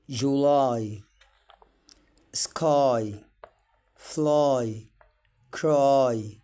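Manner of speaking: each word said alone with a clear ai; modeling y as ai. Shown as a demonstration. Teacher reads the exercise words to students, clear. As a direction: read the word list out one word at a time. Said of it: "circle the correct words".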